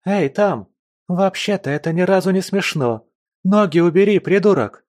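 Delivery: stuck friend yelling from the burrow; indignant yelling. A narrator's reading. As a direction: yell up from inside the burrow. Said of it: "Не унималась застрявшая в норе слеза".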